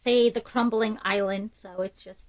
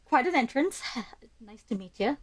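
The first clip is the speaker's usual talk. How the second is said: laughing greeting; 2 semitones higher than usual. Pretend.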